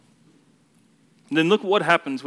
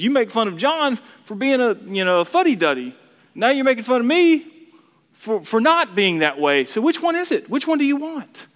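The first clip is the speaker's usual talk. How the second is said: building exasperation; 8 semitones higher than usual. Retold or imitated. Jesus challenging his critics, rising from steady to exasperated. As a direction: start level, then push each question higher till it peaks. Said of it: "He says".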